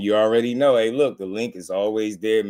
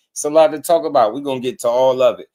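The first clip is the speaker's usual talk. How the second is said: hyped; 2 semitones higher, 7 dB louder, faster than usual. Real, not acted. Hyping the show to viewers.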